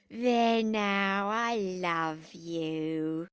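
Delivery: long-drawn tipsy endearment; drowsy drunk. A narrator's reading. Drunken Jackie tells Henry her love, drowsy and slurring. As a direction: sink slowly through stretched-out vowels.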